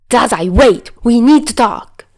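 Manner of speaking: loud urgent call after him; yelling. Acted. Chuya yelling to stop Dazai running off. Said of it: "Chuya yelled".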